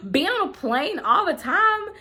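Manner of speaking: talking through a high laugh. Real, not acted. Laughing about travel with husband.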